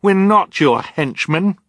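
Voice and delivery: high, loud, slow protest; crying out. A narrator's reading. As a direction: cry out indignantly. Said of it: "Violet cried".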